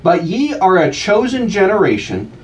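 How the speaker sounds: slow, solemn reading of scripture; measured King James recitation. Acted. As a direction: read it like a reverent reader at the pulpit. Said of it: "It reads".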